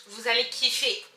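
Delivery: loud, gushing urging, last word stretched; excited hype. Real, not acted. Vlogger urging viewers to smell the perfume, excited hype. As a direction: cry it out to send them running to the shop.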